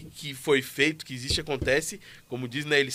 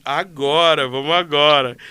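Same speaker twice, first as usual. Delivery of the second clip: urgent pastor; 9 dB louder, slower than usual. Retold or imitated. Pastor's urgent reply, retold.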